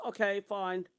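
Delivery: mildly huffy imitation; with attitude. Her answer when he leaves to shower, with attitude. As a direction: imitate her grudging agreement. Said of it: "you can tell her attitude".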